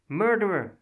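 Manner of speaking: high, loud scream at husband. Acted. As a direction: hurl the word at him. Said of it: "Anna Gassner screamed at her husband".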